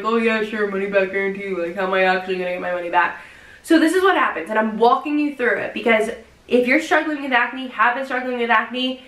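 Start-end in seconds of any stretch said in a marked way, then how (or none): 0.0-3.2 sarcastic doubt. Retold or imitated. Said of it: "I'm like".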